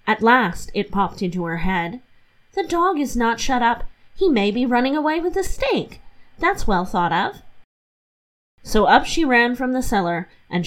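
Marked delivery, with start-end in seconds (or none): 2.5-7.4 put-on lightly raised, chatty young wife; Catherine's voice. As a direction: voice the housewife a little higher. Catherine worries about the dog.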